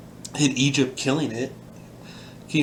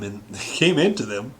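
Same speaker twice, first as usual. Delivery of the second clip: laughing. Real, not acted. Laughs while rereading the phrase.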